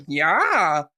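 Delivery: drawn-out mock "Yeah"; imitated meme kid. Shown as a demonstration. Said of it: "I'll just go".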